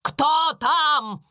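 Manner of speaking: резкий окрик в пустоту; властно потребовать ответа; гневно. A narrator's reading. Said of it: "гневно спросила она". (гневно, под стол)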